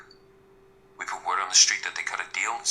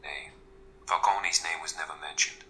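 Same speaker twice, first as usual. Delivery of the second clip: bad Irish accent. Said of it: "the worst Irish accent you'll ever hear".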